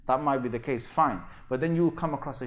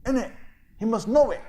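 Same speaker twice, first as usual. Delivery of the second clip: mocking gullible believer; 4 semitones higher than usual. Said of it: "So Muslims say that".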